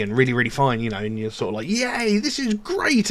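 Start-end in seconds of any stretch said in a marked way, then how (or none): 1.7-3.1 high squeaky mock yay; voicing the manic up swing, much higher; mock giddy. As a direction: play the manic happy high. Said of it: "really, really happy".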